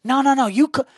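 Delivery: lightly put-on firm phone talk; fake phone call. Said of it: "Pretend to be on the phone".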